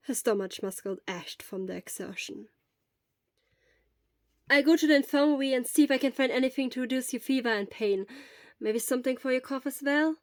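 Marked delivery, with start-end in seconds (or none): 4.5-10.2 a hint of a concerned friend, a bit louder and quicker; quick, eager offer of help; lightly voiced worried friend. Hisashi offers to fetch medicine for sick Shura, eager and caring.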